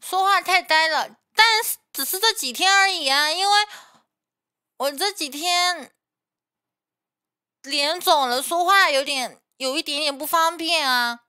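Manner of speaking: talking through a swollen face; speech slurred from swelling. Real, not acted.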